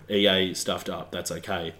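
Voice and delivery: slow, slurred imitation; slurry voice. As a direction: slur it lazily. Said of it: "in the slurry voice that he has".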